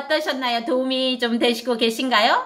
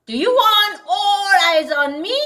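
very slow, higher model phrase; slow teaching read; 7 semitones higher, 4 dB louder, much slower than usual. Shown as a demonstration. Teacher modeling the phrase slowly for parents. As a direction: spell it out slowly for learners. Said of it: "이렇게 하면 되겠죠".

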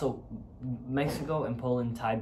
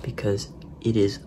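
whispering. Real, not acted. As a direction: whisper so nobody wakes. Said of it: "I have to whisper".

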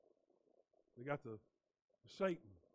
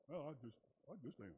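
sulky churchgoer; 2 semitones higher, 6 dB quieter than usual. Retold or imitated. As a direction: play a pouting churchgoer, half-hearted.

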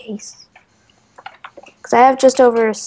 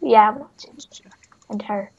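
whispering; 2 semitones lower, 8 dB quieter than usual. Real, not acted. Whispers about a character.

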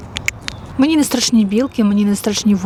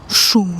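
sudden "shoo" sound; a quick noise to scare off starers; playful shooing noise. Shown as a demonstration. Vlogger shows what they'd do to people staring, playful "shoo". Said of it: "мені хочеться отак зробити".

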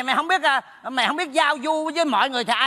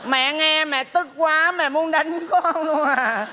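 slow, chiding put-on mother; giả giọng mẹ; 3 semitones higher, slower than usual. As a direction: lecture a child as a pretend mother. (giọng mẹ giả, chậm rãi răn dạy)

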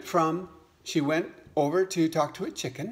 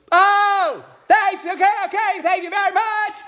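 eager little frog; 9 dB louder than usual. Acted. New frog mother asking mama hen for advice, squeaky high frog voice. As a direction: pipe it up high like a tiny frog. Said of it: "He goes".

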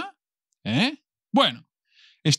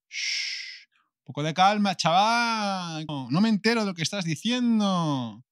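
pidiendo calma; 3 semitones higher than usual. Acted. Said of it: "la gente puede pedirte".

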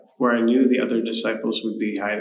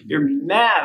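raised angry retort; shouting; 4 semitones higher than usual. Acted. Thomas to Peter, angry raised shout. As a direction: hurl it at him, disbelieving. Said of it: "I shouted".

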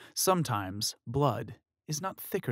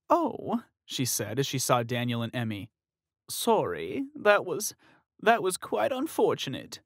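lightly raised polite condolence; a hint of a sympathetic older woman. Woman bumping into the couple, mildly sympathetic. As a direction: offer mild sympathy.

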